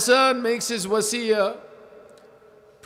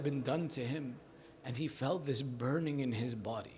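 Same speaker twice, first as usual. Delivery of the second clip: hushed narration; 4 semitones lower, 9 dB quieter than usual. Acted. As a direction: draw the listeners in quietly. Quiet opening of a mourning narration.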